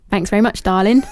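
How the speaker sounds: lightly put-on Cockney accent; a quick mock Cockney thanks; hint of cheeky Cockney; Cockney banter. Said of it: "he'd probably say".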